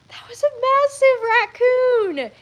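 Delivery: high, loud laughing disbelief. Retold or imitated. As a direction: laugh it out in awe. Laughing alone on couch.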